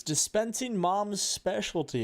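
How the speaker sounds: a lightly voiced machine announcement. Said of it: "a voice says".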